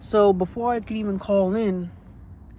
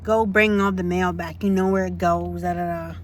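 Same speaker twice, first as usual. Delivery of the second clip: mocking the supervisor. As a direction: brush her off like a curt boss. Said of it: "she's like".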